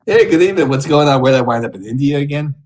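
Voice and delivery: loud, high leering lounge-lizard greeting; sleazy greeter. Acted. Streamer greets Omegle strangers as a leering creep, loud and high. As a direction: belt it out like a creepy host hitting on strangers.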